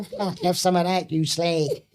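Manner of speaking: slow, mock Essex swagger; hammed-up Essex taunt; Essex accent. Shown as a demonstration. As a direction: put on a crude Essex accent, drawn out. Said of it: "I might speak a bit of Essex".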